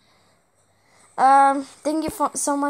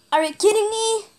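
exasperated disbelief; 8 semitones higher, 3 dB louder, much faster than usual. Real, not acted. Same words repeated, second take high.

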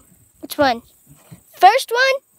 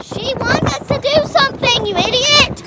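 annoyed; 5 semitones higher than usual. Real, not acted. Annoyed at sister.

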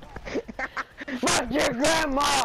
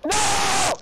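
shout; 5 semitones higher, 4 dB louder than usual. Real, not acted.

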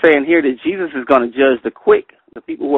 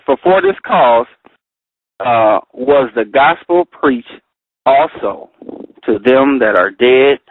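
scripture reading. Acted. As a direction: read each phrase out carefully. Reads Bible verses aloud.

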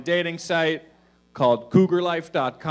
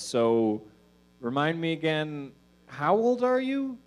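lady's suspicious question; 3 semitones higher than usual. Retold or imitated. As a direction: draw the question out, pitched up. Older lady asks his age.

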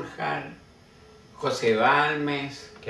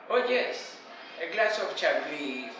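put-on Oxford English accent; 2 semitones higher, 4 dB quieter than usual. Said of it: "con el acento de Oxford".

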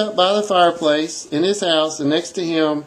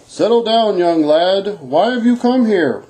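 lightly voiced jolly Santa; amused, fatherly calm-down; Santa chuckling. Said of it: "replied with a chuckle".

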